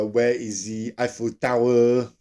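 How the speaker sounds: slow, drawn-out put-on French accent; fake French accent. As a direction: mimic a French speaker's English, slowly. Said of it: "you're trying to be French".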